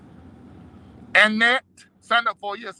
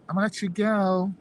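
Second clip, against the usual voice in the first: put-on white girl voice. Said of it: "This is my, my white girl voice".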